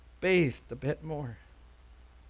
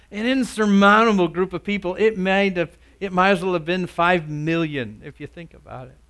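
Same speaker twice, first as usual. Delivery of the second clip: louder sermon voice, building in force; emphatic preaching; 4 semitones higher, 8 dB louder than usual. Real, not acted. Preacher telling of Jesus feeding thousands, emphatic preaching. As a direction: preach the miracle with rising emphasis.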